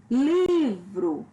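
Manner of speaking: "Livro" with a long LI, falling on vro; stress on first syllable. Shown as a demonstration. Teacher giving a paroxytone example, stress on penultimate syllable. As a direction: draw out the LI of "Livro". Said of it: "penúltima sílaba".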